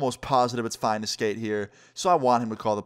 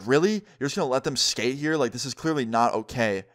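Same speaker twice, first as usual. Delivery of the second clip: mildly mad, retold protest; getting mad. Basketball player objecting to the cops, getting mad. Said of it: "he starts getting real mad".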